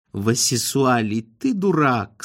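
slow, unruffled put-down; calm. A narrator's reading. Wife answering her whining husband's insults, calmly. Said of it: "спокойно ответила жена".

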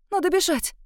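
high frantic urging; first cry, pitched high; panicked. A narrator's reading. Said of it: "Запаниковала я".

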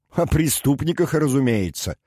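amused, pitched well up; short amused laugh. A narrator's reading. Prisoner joking to his aide about being in jail, lightly amused. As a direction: toss it off lightly, as if half laughing. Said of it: "коротко рассмеялся Дердагентур".

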